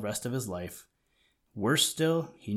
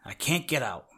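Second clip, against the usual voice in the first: choky voice; 2 semitones higher than usual. A narrator's reading. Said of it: "his voice sounded all choky".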